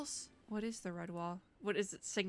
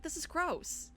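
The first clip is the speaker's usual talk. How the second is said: grossed out; 7 semitones higher, slower than usual. Real, not acted. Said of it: "That's why I'm like".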